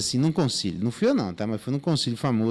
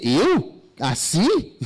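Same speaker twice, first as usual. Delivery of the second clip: higher, incredulous Eu? Assim?; mock incredulous; 4 semitones higher, 4 dB louder, much slower than usual. Role model scoffs at the churchgoer, mock incredulous. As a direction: act shocked at being copied.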